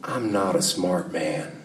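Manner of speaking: low, slow, bad Southern accent; halting movie-character accent, low and badly faked; Forrest Gump. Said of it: "that was the worst accent ever".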